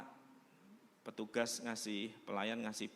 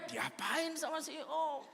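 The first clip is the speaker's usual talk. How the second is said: laughing question; 14 semitones higher, slower than usual. Retold or imitated. Onlookers asking, laughing.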